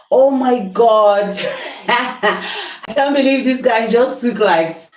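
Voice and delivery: high, laughing disbelief at the blackout; laughing shock. Real, not acted. Power cut mid-cooking on live.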